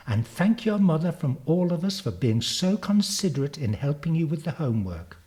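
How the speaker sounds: lightly voiced teacher, lifted pitch; a hint of effusive classroom praise; teacher addressing class. Teacher congratulating Zanzi before the class, lightly voiced schoolteacher.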